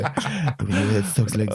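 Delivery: slow, lightly put-on French villain; a hint of a French accent. Recalling the French guy's line, slow mock French accent. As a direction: drawl it like a cartoon French baddie, mildly. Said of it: "generic bad guy".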